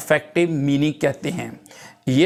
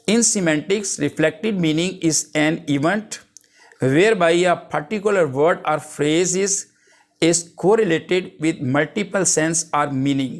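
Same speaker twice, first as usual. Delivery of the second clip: reading a definition out slowly, word by word; slow dictation; much slower than usual. Acted. Teacher dictating a definition to the class, slow and deliberate. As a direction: dictate it so students can write it down.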